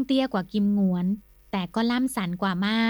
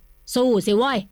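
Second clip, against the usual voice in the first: louder, almost yelling; near shout; 3 semitones higher, 5 dB louder, much slower than usual. Acted. Nikorn urges Kimnuan to fight, near shout. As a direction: urge him on at near full voice. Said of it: "ร้องเกือบเป็นเสียงตะโกน".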